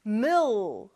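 "mill" with a held dark L at the back. Shown as a demonstration. Teacher shows learners the tongue position, dark L. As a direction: draw out the final L in "mill". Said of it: "을 발음할 때는 혀가".

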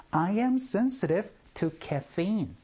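very slow model sentence, every word spaced out; slow drill. Shown as a demonstration. Teacher leading the class drill, very slow and clear. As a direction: spell it out slowly for learners to repeat. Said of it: "시작".

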